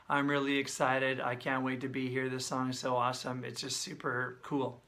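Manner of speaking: demonstrating speech with no prosody; flat monotone demo. Shown as a demonstration. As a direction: drone it like a bored memorized speech. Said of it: "This is no prosody".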